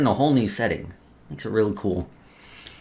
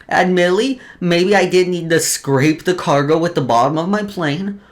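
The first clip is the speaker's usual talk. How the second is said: higher, louder, half-joking excuse; mock defensive; 5 semitones higher, 3 dB louder than usual. Pilot jokingly defends scraping the cargo, mock innocent. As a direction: play the innocent soldier who just followed orders.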